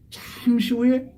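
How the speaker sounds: drawn out slowly, letting the moment sink in; slow dramatic pause. Real, not acted. Preacher slowing the story before the thief speaks, slow and drawn out. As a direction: stretch each syllable like time passing.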